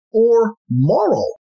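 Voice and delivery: high-pitched inquiring listener; questioning listener. Acted. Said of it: "some of you might be asking".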